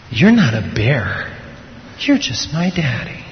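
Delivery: put-on slow, soft little-boy realisation; tender child's relief. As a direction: say it softly, slowly, as a child.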